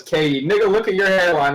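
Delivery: lightly voiced retort; a mild jab, only a touch livelier; retold jab. Reading a meme about an argument, lightly acted jab.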